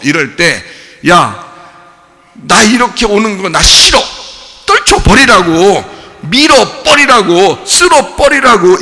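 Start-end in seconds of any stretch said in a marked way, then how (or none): 1.1-8.8 loud, slow push-away commands; shouting and shoving it away; shouted rejection. Retold or imitated. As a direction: drive the feeling off with a shout. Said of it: "이게 아포티나스라고요".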